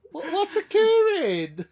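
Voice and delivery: high, slow, laughing Welsh catchphrase; hammed-up Welsh accent, laughing. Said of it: "sums up Welsh English relations".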